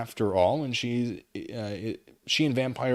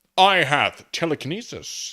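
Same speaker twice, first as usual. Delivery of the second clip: cruel tone, higher and louder; 4 semitones higher, 6 dB louder than usual. Reading a fan story aloud, Voldemort answers: answering cruelly. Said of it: "he answered cruelly".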